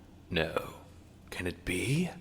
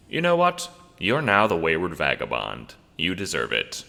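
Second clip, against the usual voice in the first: loud proclamation; 5 dB louder than usual. Acted. Vagabond telling the boy he's now the vagabond, loud proclamation. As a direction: declare it with mock ceremony.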